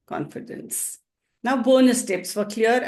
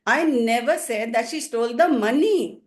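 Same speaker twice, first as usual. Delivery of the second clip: emphatic final "money"; stress on MONEY. Shown as a demonstration. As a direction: save the punch for "money". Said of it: "make my stress on one more word".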